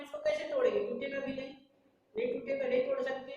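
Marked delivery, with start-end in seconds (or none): 2.2-3.3 playful high insistence. Acted. Teacher insists chalk won't break.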